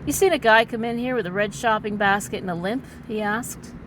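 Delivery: overwrought noir narration; milk every line like pulp noir; hammy stage actor. A narrator's reading. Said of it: "as a dramatic reading".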